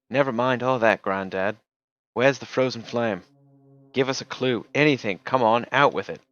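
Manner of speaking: loud, pushy demand; impatient demand. Acted. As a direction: push hard for an answer. Kid impatiently demanding answers.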